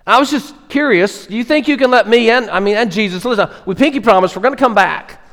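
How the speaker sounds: high, eager, wheedling thief's plea; pleading thief. Acted. Thief on the cross pleading with Roman soldiers, high and eager. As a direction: beg the guards like a sheepish convert.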